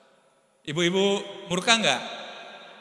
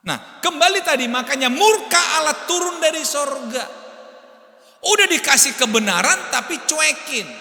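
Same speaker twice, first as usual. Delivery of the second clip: high, loud preacher's proclamation; fiery pulpit voice; preaching at full force; 11 semitones higher, 8 dB louder than usual. Acted. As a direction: drive it home to the congregation. Preaching climax.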